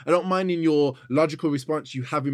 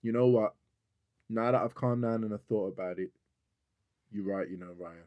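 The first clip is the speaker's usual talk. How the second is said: imitating her apology; 6 semitones lower, 7 dB quieter than usual. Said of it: "the next day she'll go".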